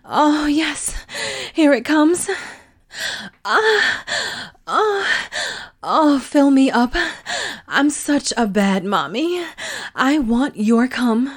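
high, loud climactic cries; peak climax cries. Acted. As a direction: let go completely at the peak.

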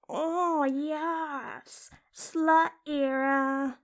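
drawn-out, naughty cheering; gleeful talking-vagina character. Acted. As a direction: relish it in the randy inner voice. Inner voice cheers her on.

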